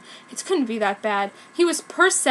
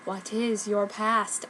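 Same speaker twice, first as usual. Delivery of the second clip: soft, slow mysterious question; hint of mystery; 5 dB quieter, slower than usual. Sakura asking Ryo his past, softly mysterious. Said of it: "I said mysteriously".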